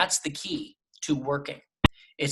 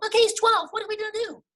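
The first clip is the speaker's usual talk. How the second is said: put-on very high, squeaky kid voice; twelve-year-old character; 4 dB louder, faster than usual. Shown as a demonstration. Voice actor obeying a director's note, high twelve-year-old voice. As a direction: jump way up into a little boy's pitch. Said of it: "Let's make him twelve".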